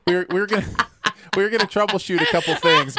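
high, giggling words; explaining through giggles; laughing through it. Real, not acted. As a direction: talk while laughing.

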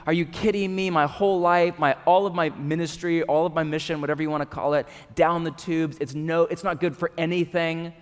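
a touch of exasperated doubt; mild frustration. Acted. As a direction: let off steam, half-hearted. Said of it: "Doubt, frustration".

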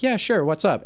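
lifted, casual friendly answer; easygoing reply. Acted. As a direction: keep the surprise inside and answer lightly. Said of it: "that's in my head, and I'll be like".

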